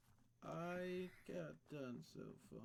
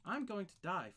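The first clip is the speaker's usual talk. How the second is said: mock dramatic wail; 6 semitones higher, 9 dB louder than usual.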